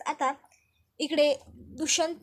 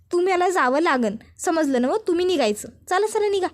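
slightly raised, mildly heated dismissal; insistent ordering off; 3 semitones higher, 4 dB louder than usual. Acted. Krishna ordering the intruder out of her field, mildly heated. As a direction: press him to leave, pitch lifting at the end.

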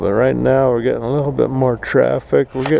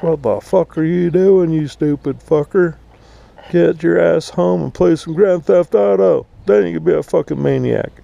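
mock road-rage yell; 6 semitones higher than usual. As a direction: bark it at the other driver. Yelling at a road rager.

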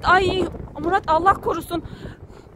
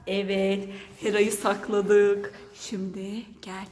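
conspiratorial hush; 7 semitones lower, 5 dB quieter, slower than usual. Real, not acted. Plotting the prank to the child.

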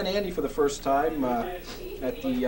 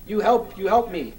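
insistent mock foreign accent, higher and a bit louder; Andy's foreign accent; 4 semitones higher, 4 dB louder than usual. Andy pushing Bob to carry props, mock foreign accent. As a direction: press him for help in a put-on foreign accent. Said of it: "in that accent of his".

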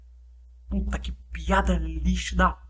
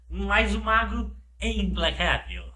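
slow, grave, unshaken reply; solemn slow voice; slower than usual. Pretend. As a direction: declare it calmly like a wizard. Resposta do Mago. (voz solene e lenta)

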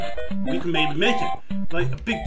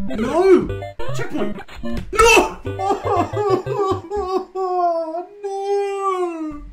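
frustrated yelling; 13 semitones higher, much slower than usual. Real, not acted. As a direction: yell at the screen. Dies near checkpoint.

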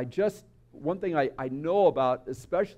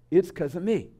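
a touch of guilty resignation; self-blaming child. Acted. Egocentric child when something terrible happens, mildly self-blaming. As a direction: mildly let down, barely raised.

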